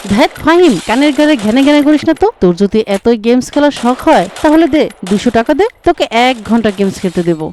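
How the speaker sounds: swat him away like a pest; annoyed snap. Acted. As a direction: friend irritated by the nagging. Annoyed friend brushes him off.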